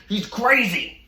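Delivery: mocking the roommate on the phone in a high whine. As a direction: imitate him as a high complaining whiner. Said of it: "He's like".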